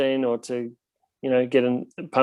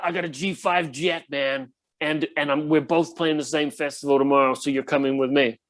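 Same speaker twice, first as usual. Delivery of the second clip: Lars impression. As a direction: boast about the jet like a casual star. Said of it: "that's my best Lars impersonation".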